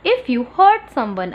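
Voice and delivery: very slow, each word apart; slow read-aloud. Shown as a demonstration. Teacher reading the rule aloud to children, very slow. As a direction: spell it out slowly for the class. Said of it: "teacher reads sentence slowly".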